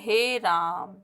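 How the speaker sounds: "हे राम" with the vowels stretched out long; long drawn vowel. Shown as a demonstration. Teacher demonstrating the pluta vowel, "हे राम" drawn out long. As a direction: hold "राम" long, like a prolonged call. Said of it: "बहुत लंबी आवाज़ जाती है".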